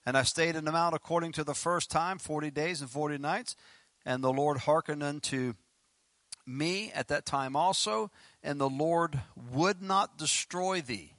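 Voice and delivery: measured, emphatic Bible reading; scripture reading. Acted. Preacher reading verse ten to the congregation, deliberate scripture reading. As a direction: read the verse out, slowing down toward its close.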